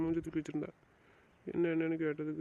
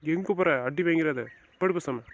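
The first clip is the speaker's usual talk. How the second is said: louder, stern command to stay; angry order; 5 dB louder, slower than usual. Acted. Husband stops wife leaving angrily.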